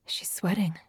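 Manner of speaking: soft unvoiced whisper; whispered thought. A narrator's reading. Noor noticing Tabinda's sweat, hushed whisper. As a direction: breathe it as an inner thought. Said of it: "Noor thought with wonder".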